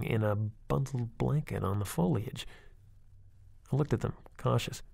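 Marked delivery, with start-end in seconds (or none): none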